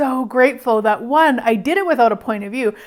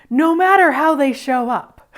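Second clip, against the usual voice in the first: laughing; 3 semitones higher than usual. Real, not acted. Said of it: "So I'm laughing because".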